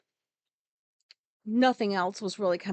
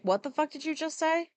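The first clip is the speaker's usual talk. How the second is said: incredulous; 7 semitones higher than usual. Retold or imitated. Imagined shocked reply to the word.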